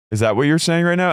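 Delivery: incredulous question, pitched high and rising at the end; Shannon. Retold or imitated. Shannon challenging Tamara after being yelled at, high incredulous question. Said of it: "And then Shannon goes".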